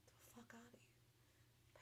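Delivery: whispered dismissal; unvoiced scoff. Real, not acted. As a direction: breathe it out in disgust. Scoffing at news claims.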